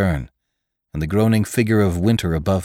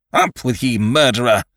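crying out; 4 semitones higher, 4 dB louder than usual. A narrator's reading. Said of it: "cried Ned".

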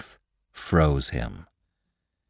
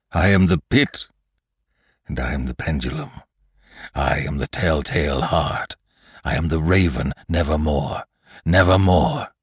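a growing, half-delirious chant of names; lightly voiced dying man, rising fever; fevered Lantry; 4 dB louder than usual. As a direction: let the list swell, then sink on the pendulum.

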